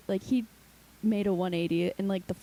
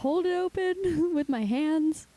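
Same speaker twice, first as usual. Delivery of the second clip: mock desperate self; 7 semitones higher, 3 dB louder, slower than usual. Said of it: "I'm like".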